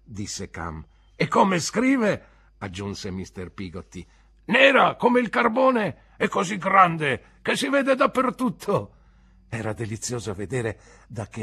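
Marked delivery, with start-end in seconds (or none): 1.2-2.3 slow, higher, louder; admiring praise. Acted. Peggotty praises Emily. 4.5-9.0 slow, higher, louder; admiring praise. Acted. Peggotty praises her writing.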